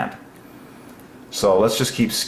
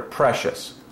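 whispered word; 4 dB quieter than usual. Real, not acted. Marvelling at a Bible word, whispering it. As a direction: breathe "Precious." out as a soft whisper.

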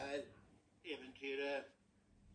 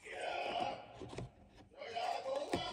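troll voice; 8 semitones higher than usual. Acted. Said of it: "sa trollet".

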